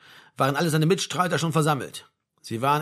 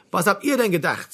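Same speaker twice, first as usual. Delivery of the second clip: higher, indignant sergeant's retort; brusque sergeant major; 4 semitones higher than usual. Acted. Sergeant major to grumbling soldiers, brusque. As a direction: put the grumblers in their place.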